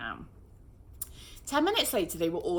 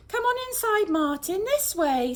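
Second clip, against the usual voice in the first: gently; 13 semitones higher, 6 dB louder than usual. A narrator's reading. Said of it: "said Rose's mum gently".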